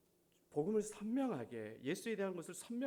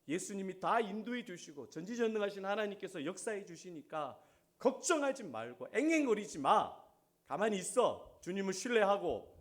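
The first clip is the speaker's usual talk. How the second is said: firm, insistent reassurance with louder commands; firm retold admonition; 3 semitones higher, 4 dB louder than usual. Pastor telling anxious member to trust God, firm admonition. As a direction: tell them firmly to stop fretting. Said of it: "강하게".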